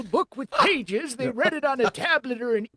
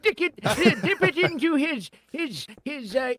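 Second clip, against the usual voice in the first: put-on old man voice. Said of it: "sounded so much like Grandpa Simpson".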